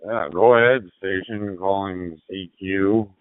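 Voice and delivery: over a fading radio signal; like a weak shortwave reply. Real, not acted.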